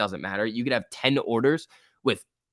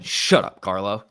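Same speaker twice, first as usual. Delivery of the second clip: loud playful shout; sharp joking shout; 4 dB louder, slower than usual. Real, not acted. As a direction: shout it at a friend. Snaps at chatter Carlo.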